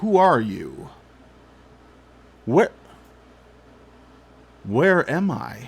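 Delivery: deep, youthful, swooping voice. Narrating a role-play, voicing a being that backs away, in a deep youthful voice. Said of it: "in a voice that is uh, deep".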